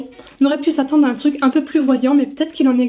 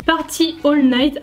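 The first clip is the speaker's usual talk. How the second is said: English name in a French accent; slowed English, pronounced the French way; slower than usual. Real, not acted. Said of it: "avec mon superbe accent français".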